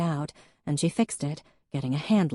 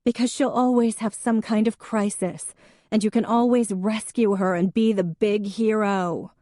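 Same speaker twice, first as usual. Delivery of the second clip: high and louder, sneering; bitter taunt; 6 semitones higher, 4 dB louder than usual. Acted. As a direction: throw the hero jab at him, pitched up. Em taunting Jack.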